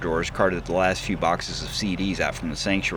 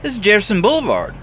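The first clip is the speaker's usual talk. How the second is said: fast, higher and louder disbelief; stunned Dwayne; 13 semitones higher, 6 dB louder than usual. Acted. Dwayne stares at the cash, higher and fast. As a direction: blurt it out, gulping.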